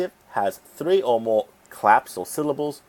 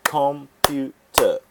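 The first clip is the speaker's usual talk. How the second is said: clapped syllables; 4 semitones higher, 3 dB louder, much slower than usual. Shown as a demonstration. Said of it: "Three syllables again".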